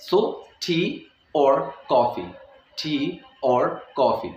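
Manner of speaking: और said full and slow; slow demo, hitting और clearly; stressed or. Shown as a demonstration. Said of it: "या के ऊपर अगर मैं एक जोर दे रहा हूँ". (और पर ज़ोर देकर)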